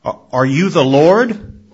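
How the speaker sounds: stammering, frightened question; fearful trembling voice. A narrator's reading. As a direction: tremble as you ask. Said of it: "with a fearful and trembling voice asked".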